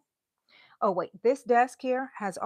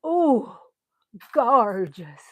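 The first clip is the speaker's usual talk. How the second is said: awed whisper; 7 dB louder, much slower than usual. Real, not acted. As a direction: breathe the word in awe. Admiring a find.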